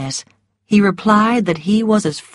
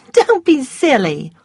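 Scarlet voice; 7 semitones higher, 3 dB louder than usual. A narrator's reading. Scarlet brushing him off.

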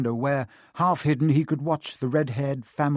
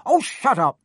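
annoyed; 9 semitones higher, 7 dB louder than usual. A narrator's reading. Percy snaps.

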